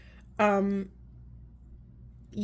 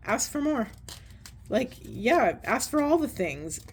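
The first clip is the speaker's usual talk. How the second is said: delighted repeat; 4 semitones higher than usual. Shown as a demonstration. Reader repeating a favourite line to viewers, higher and delighted. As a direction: Ask for more lifted much higher, savoured. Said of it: "I love that so much".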